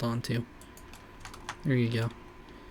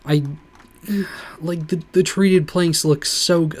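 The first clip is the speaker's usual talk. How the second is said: excited whisper; 5 semitones higher, 6 dB louder than usual. Real, not acted. Gushing over treated planks.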